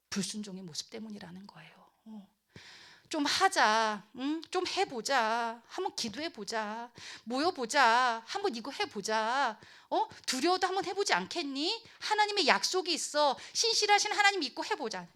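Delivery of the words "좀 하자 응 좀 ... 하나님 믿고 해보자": gentle coaxing. Acted. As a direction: coax them along patiently. Coaxing reluctant people to try.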